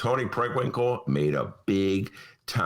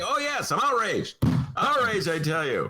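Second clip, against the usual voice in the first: theatrical indignant outrage, higher and pounding; hammed-up outrage; 4 semitones higher than usual. Host pretending fury at editorial writers for a listener. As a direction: ham up the outrage with a harrumph. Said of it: "I should pound the table".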